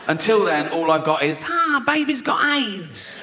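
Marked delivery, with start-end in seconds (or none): 1.5-3.2 high, slow, drawn-out mock wail; mock wailing lament. Comic grieving his own punchline, slow high wail. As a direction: wail it like a hammed-up grieving mother.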